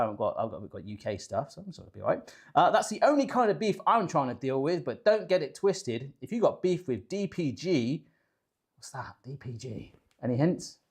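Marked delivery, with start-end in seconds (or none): 2.7-8.0 lightly put-on English farmer rapper voice; a hint of mock rapper swagger; a famous rapper. Host reads on from the cookbook, mildly faked rapper voice. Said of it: "rapper impression in an English farmer voice".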